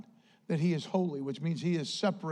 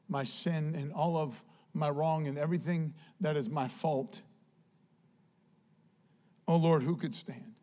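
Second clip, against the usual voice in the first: hushed prayer; 4 semitones lower, 5 dB quieter than usual. Acted. David pleading softly to God, hushed. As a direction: pray it quietly, humbled.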